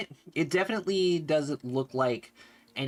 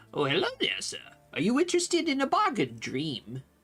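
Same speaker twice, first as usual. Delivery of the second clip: put-on high, swooping old beggar character voice; 7 semitones higher than usual. Voicing an old roadside beggar greeting a player: old roadside beggar voice. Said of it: "he looks at you and says".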